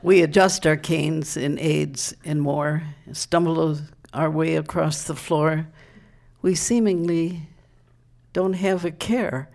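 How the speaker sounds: emphatic, measured verse reading; proud public declamation of comic verse; poem recital. Acted. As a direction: recite it to the crowd, line by line. Reads comic verse to audience.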